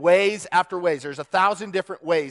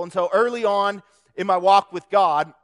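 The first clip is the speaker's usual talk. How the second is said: voice cracking; 2 semitones higher, 4 dB louder than usual. Real, not acted. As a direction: voice cracks mid-sentence. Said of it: "my voice cracked".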